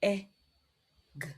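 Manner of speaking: P-E-G spelled letter by letter, soft; sounding out letters. Shown as a demonstration. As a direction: sound out P-E-G slowly. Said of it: "let us sound it together".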